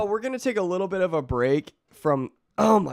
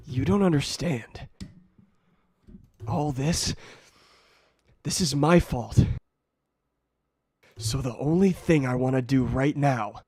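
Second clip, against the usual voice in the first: Mark; 3 semitones lower than usual. Acted. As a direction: speak it low to the villain, defeated. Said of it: "with Mark".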